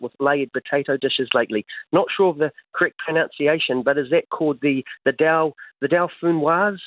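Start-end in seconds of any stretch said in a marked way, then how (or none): 5.0-6.8 slow, careful stab at a French Dauphinoise; French-sounding Dauphinoise. Real, not acted. Radio gardener tries the French dish name, a touch French. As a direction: draw out Dauphinoise with a French lilt. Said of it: "That sounded very French".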